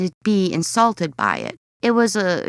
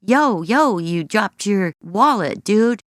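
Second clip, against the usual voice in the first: casual bro call-out; slower than usual. Shown as a demonstration. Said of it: "what do you do in those situations".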